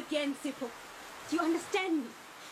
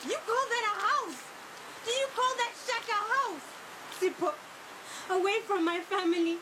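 higher, contemptuous, then weary resentment; raised, bitter and fed up; bitter scorn; 4 semitones higher than usual. Acted. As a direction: throw his house back at him. She scorns his shack.

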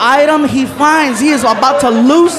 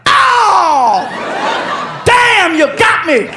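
laughing high shout; 8 semitones higher, much slower than usual. Acted. Neighbor opening the door to the pranksters, high laughing shout. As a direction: crack up at being fooled.

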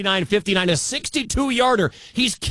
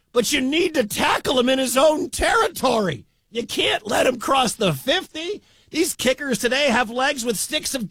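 emphatic shout; 5 semitones higher than usual. Real, not acted. Announcer explaining kick coverage.

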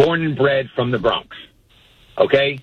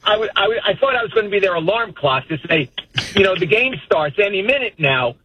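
high-pitched, stumbling mock apology; flustered explanation, pitched up; mock apologetic; 7 semitones higher than usual. Grown son excusing his call to mom, mock apologetic.

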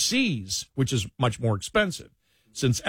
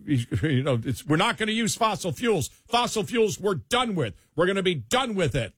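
emphatic retold promise; 5 semitones higher than usual. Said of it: "he goes, No, it's just gonna be".

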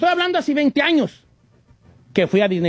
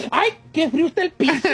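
mock shivering; 5 semitones higher than usual. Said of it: "le decía".

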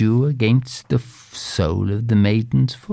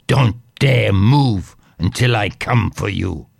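wicked stepmother; 2 semitones lower than usual. Acted. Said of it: "said the stepmother".

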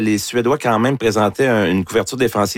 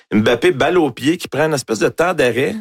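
excited play-by-play; 5 semitones higher than usual. Real, not acted. Sports host recounts Mbappé's goal to his co-host, excited and pitched higher. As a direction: pitch up, eager retelling of the goal.

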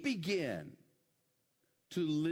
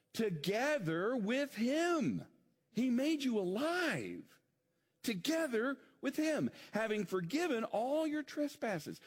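rising preaching fervor; 7 semitones higher, slower than usual. Acted. Preacher builds to high climax.

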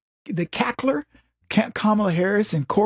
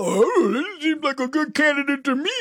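high, airy naive mock voice; mocking leftists; 8 semitones higher than usual. Leftists praising the candidate, mock naive. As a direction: sound blissfully clueless, pitched up. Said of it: "these leftists go".

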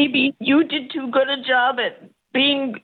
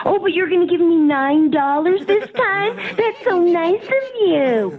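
dripping fake thanks; sarcastic. Real, not acted. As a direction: thank them with real sarcasm, stretching the end. Sarcasm at insulting nine-dollar refund.

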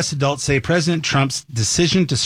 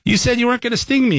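high, fast, mock-indignant squeak; hammed-up dying frog; 11 semitones higher, faster than usual. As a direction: play the betrayed frog squeaking out his last complaint. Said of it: "And he's, as he's dying, goes".

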